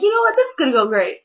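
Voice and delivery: high, loud, cheering; patient cheering after the nice nurse, loud; pumped up. Retold or imitated. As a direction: hype yourself up and whoop. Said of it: "you're all like".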